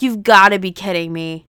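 half-joking fury at the writers; mock rage. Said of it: "the rage that boiled in my veins".

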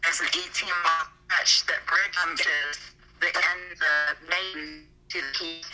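glitchy, breaking-up phone audio; choppy call cutting in and out; bad connection. Real, not acted. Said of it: "You're glitching".

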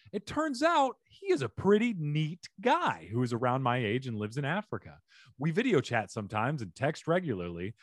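animated read-aloud with swinging pitch; reading a post aloud. A narrator's reading. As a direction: read the letter out like a lively storyteller. Reads a Reddit post aloud.

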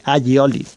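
Agioli with a palatal ly sound, "a-lyi-o-li"; Valencian ll. Shown as a demonstration. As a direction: say Agioli with ll, not plain l. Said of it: "se pronuncia como una L".

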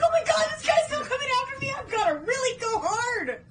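fast, high, frantic yelling; panicked shout. Retold or imitated. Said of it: "he's like".

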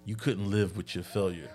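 quiet mock-menacing movie quote; Thanos. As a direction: lightly imitate a villain's weighty, paused cadence. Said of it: "when he talks, he pauses to let you live with that".

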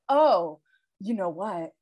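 a hammed-up, deflated confession of failure; mock despair. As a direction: sigh it out like a beaten parent. Mock despairing rant to husband.

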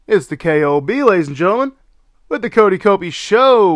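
booming showman announcer; ringmaster. Acted. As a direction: hype it like a circus ringmaster. Podcast intro announcer hype.

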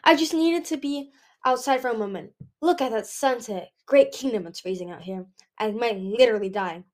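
lightly voiced chatty Nightwing, freezing but stubborn; a hint of a plucky young dragon; lively Nightwing dragon. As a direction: talk yourself through the cold. Voices the chilly Nightwing outdoors.

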